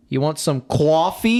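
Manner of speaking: put-on ditzy girl voice. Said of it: "from Nancy Allen".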